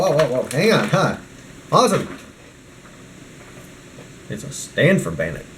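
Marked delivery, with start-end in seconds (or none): none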